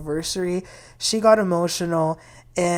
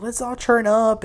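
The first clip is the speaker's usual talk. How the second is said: party call; 4 semitones higher than usual. Retold or imitated. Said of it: "get a little wild".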